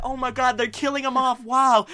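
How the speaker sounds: high, loud mock dismay; retold shock. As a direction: exclaim in playful disbelief. Retold shock at Wiggler's death.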